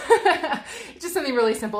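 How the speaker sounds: laughing through the words. Real, not acted. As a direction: chuckle while saying it. Laughs while talking.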